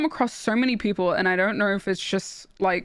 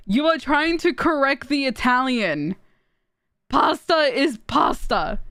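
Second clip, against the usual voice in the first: slow, raised, indignant correction; emphatic retort; 4 semitones higher, slower than usual. Retold or imitated. Italian streamer retelling how they corrected a girl about pasta, emphatic. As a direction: spell it out slowly, indignantly.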